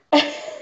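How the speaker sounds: brief real giggle; giggling. Real, not acted. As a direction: let a little giggle slip out. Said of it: "Keeks is just giggling".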